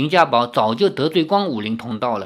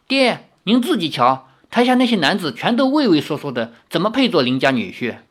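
complaining daughter; 3 semitones higher than usual. Acted.

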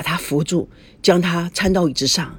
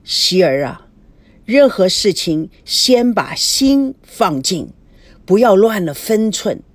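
forced calm; 3 dB louder than usual. Acted. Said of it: "他尽量用平静的声音说".

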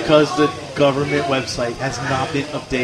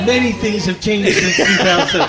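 higher, laughing through the official's reply; mock the clerk with a laugh; laughing quote; 5 semitones higher, 4 dB louder than usual. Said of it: "she goes".

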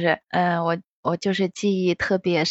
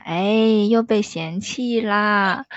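pitiful whine; much slower than usual. Retold or imitated. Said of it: "我爸就可怜巴巴的".

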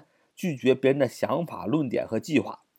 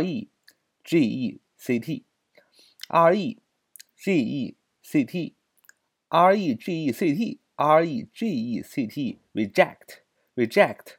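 slow spelling out; 2 semitones higher, much slower than usual. Shown as a demonstration. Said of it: "teacher spelling the word aloud".

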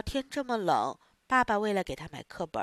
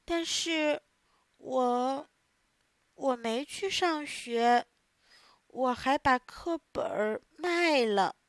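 ashamed confession; 3 semitones higher, slower than usual. Acted. Pinocchio confesses shamefully.

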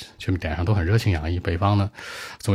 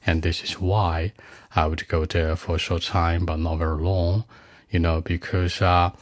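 model exam answer. Shown as a demonstration. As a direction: recite a sample speaking-test answer calmly.

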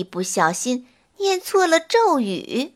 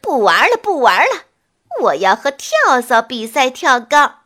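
louder frustrated witch yell; angry shout; 4 dB louder than usual. Acted. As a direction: stamp and shout it out. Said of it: "气得抓着头发叫道".

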